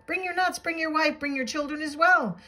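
high, lilting list of invitations; eager invitation. A narrator's reading. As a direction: welcome them all in as a merry bird. Woodpecker eagerly invites squirrel in.

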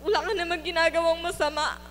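pushing the hurt out through tears; crying. Real, not acted. Rising tearful outrage.

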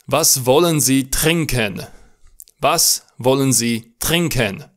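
slow Was wollen Sie trinken with a throaty German r; slow model answer. Shown as a demonstration. Teacher models the answer for repeating, slow and clear. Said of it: "Spuneți cu voce tare".

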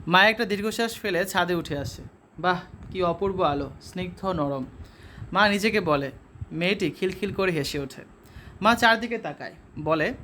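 measured storytelling read, voicing mother and daughter lightly; story narration. Teacher reading the story to the students, steady narration. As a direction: read the tale aloud to the class.

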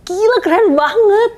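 high, thrilled exclamation; excited reaction. Retold or imitated. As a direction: gush like you just heard a great song. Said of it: "Terus gua yang".

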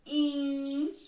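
"In" said alone as one beat; teacher splitting inverno into syllables. Shown as a demonstration. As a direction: sound out the syllable "In". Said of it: "vou marcar a sílaba ao passo que eu vou pronunciando".

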